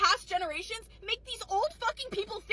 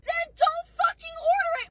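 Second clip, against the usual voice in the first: higher, louder angry snap; imagined snap; 8 semitones higher, 5 dB louder than usual. Retold or imitated. Waitress imagines snapping at the old lady, angry. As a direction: bite back at the rude customer.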